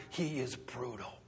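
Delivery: dropped low; understated. Shown as a demonstration. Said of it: "with the hard-hearted".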